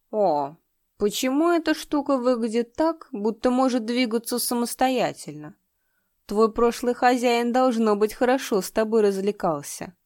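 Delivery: put-on sniffling drunk gloating over a find; drunk lecher. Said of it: "Слегка покачиваясь, он произнёс".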